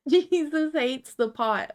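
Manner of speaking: high, loud, slow mock proclamation; hammed-up slogan voice; mock preacher. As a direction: boom it out like a street preacher. Reads meme text dramatically.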